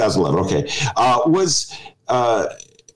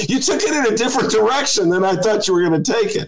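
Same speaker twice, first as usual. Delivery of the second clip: much higher, laughter-filled delivery; real amusement lifting the whole voice; laughing while talking; 12 semitones higher than usual. Real, not acted. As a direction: keep talking through the giggles. Host still laughing at story.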